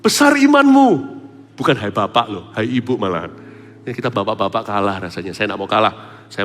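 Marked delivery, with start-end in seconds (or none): 0.0-1.2 loud, high, slow proclamation; proclaiming Jesus. Retold or imitated. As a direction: announce it with grandeur. (Yesus berseru dengan lantang dan lambat)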